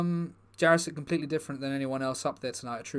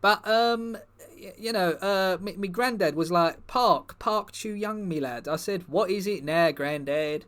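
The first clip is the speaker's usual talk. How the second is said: footballer character, a bit higher and louder, rambling; lightly voiced footballer persona; 4 semitones higher, 4 dB louder than usual. Footballer persona chats to the comedy crowd, lightly voiced, eager. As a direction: play the bumbling star footballer, eager and chatty. Performer plays the Park Chu-young persona.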